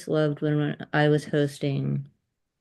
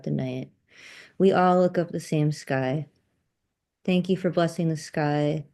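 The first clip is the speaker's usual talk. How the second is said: measured, even poetry reading; open-mic poem with pauses between lines; poem recitation. Acted. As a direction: recite it as a closing blessing, line by line.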